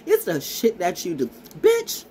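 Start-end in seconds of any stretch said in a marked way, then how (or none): 1.6-2.0 high sharp shriek of an insult. Real, not acted. Shrieking bitch at her critics. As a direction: fling the word up high. Shouted insult at the end of rant.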